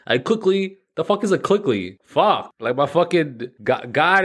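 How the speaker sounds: exasperated curse, pitched high; annoyed at flubbing the line again; real frustration. Real, not acted. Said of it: "So fucking frustrating".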